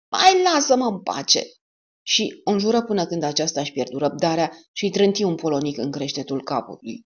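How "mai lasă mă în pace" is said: much higher, louder furious bellow. Acted. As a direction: bellow to be left alone. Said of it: "Porta zbieră".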